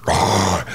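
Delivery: mock lion roar; imitated lion roar. Storyteller imitating the lion cub that snapped at him, mock roar. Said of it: "like this".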